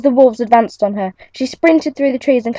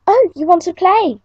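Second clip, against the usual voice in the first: smiling; 9 semitones higher than usual. Acted. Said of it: "she smiled".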